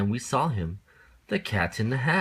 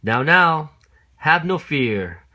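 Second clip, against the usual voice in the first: eager reassurance; 6 semitones higher, 7 dB louder than usual. Acted. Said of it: "said the cat".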